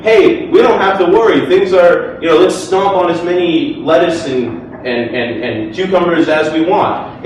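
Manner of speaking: carefree, brash mock atheist; lightly sent-up careless atheist; parody of an atheist. Speaker parodies atheists as reckless, breezy and brash. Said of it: "make a parody of myself as an atheist".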